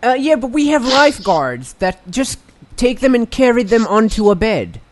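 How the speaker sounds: odd put-on pitchman voice; character voice. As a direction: play a shady resort pitchman. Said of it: "Your voice is incredibly different now from when you started".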